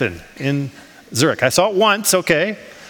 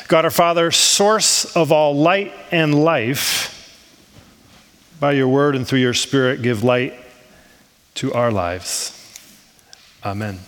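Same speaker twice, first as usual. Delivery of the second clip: prayer; 3 semitones lower than usual. Real, not acted. Leads an opening prayer.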